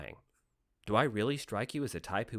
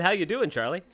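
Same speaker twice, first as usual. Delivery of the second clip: higher, louder insistent repeat of the greeting; 8 semitones higher, 5 dB louder than usual. Acted. Stranger repeating his greeting to Charlie, louder and pushier. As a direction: say it again, pushier. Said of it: "I said".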